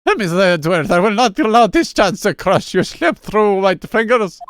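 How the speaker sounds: crap Mario voice. Acted. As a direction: play it like a bad Mario impression. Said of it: "some crap Mario voice".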